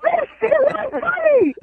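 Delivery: indignant, high and drawn-out protest; slow it down and pitch it up, truly offended; riled up. Real, not acted. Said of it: "hearing you get all riled up".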